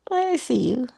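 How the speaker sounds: whispered, high and knowing; gentle whisper. Pretend. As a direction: breathe it like a secret to yourself. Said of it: "you're like".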